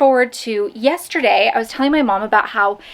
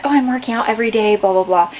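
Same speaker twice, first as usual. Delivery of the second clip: mock quoting herself; faster than usual. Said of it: "I know that I've been saying, like".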